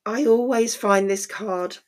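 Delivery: hoarse croaky voice from illness. Real, not acted. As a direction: talk through a croaky throat. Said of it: "my croaky voice".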